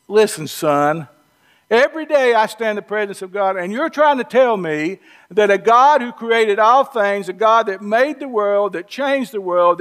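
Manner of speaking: lightly voiced, folksy Southern Gabriel scolding an old priest; a preacher playing Gabriel, talking down to Zechariah like a son; Southern-boy Gabriel. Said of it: "here's how a Southern boy would translate this if I'm sitting there and I'm Gabriel".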